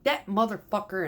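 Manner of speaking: mild venting. Retold or imitated. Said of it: "and I'm venting".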